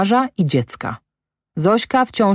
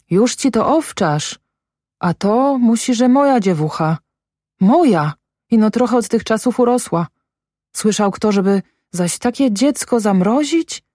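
higher-pitched, mounting distress; agitated realisation; 6 semitones higher than usual. A narrator's reading. Mother recognises her dead daughter, agitated and high. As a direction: let recognition push the pitch up.

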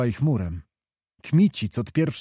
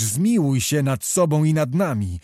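put-on a mild plea from an old officer; old soldier imploring his hetman; pleading; 3 semitones higher than usual. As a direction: beg him to have mercy, understated. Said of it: "błagał stary Stankiewicz".

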